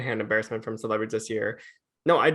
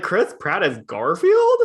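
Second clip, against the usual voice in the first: incredulous; 4 semitones higher, 4 dB louder, slower than usual. Retold or imitated. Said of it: "I was like".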